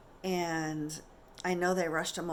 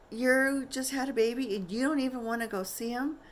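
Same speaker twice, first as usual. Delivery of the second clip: higher, louder scolding nurse; 6 semitones higher, 4 dB louder than usual. Retold or imitated. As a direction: tell her off for not going. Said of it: "scolding me".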